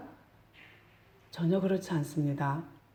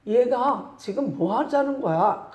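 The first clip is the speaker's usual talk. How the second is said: higher, irritated outburst; annoyed brothers; 6 semitones higher, 3 dB louder than usual. Retold or imitated. Brothers scoffing at Joseph's dream, higher and irritated. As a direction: snap at the cocky little brother. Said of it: "그래 더 뿔이 났어요".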